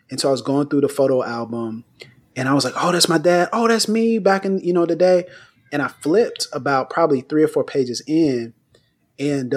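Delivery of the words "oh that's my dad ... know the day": delighted recognition. Retold or imitated. Flipping through the family photo album.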